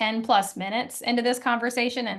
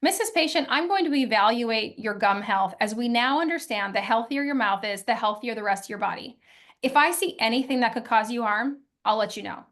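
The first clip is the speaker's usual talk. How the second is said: reassuring script. Shown as a demonstration. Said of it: "we could say something like this".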